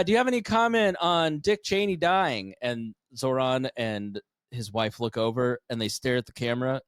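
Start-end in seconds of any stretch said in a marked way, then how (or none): 0.0-2.5 higher-pitched mock interviewer; imitating a reporter, raised pitch; reporter's question. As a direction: put the question like an eager reporter. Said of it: "He literally s".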